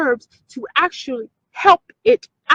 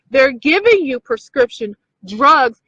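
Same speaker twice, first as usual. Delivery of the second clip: drugs pushed a touch louder; stress on drugs; 4 dB louder than usual. Shown as a demonstration. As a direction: lean on the word drugs. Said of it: "Emphasis on the word drugs".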